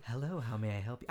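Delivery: lightly voiced polite service greeting; mock deep greeting. Host pretends to be a mall kiosk, mock greeting. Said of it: "I always wanted to be a kiosk".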